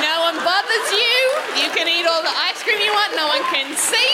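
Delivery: lightly voiced happy Fanny Gobble; content club member. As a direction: sell the upside of hiding behind a curtain. Improv defending the curtain seat.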